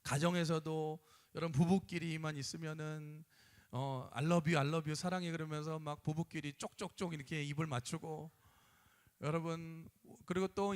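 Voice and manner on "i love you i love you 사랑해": affectionate couple. Retold or imitated. Imitating couples saying I love you.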